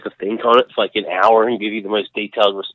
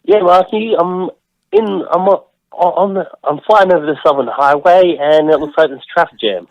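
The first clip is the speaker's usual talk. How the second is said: radio traffic reporter; 5 semitones higher than usual. Pretend.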